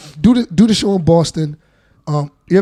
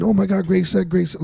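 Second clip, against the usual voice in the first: fake compliment; 4 dB quieter than usual. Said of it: "they just fake compliment".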